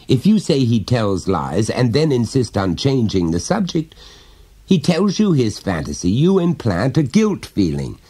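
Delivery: a hint of a chummy dad prying gently; jovial father. Father coaxing his small son to confide, lightly voiced.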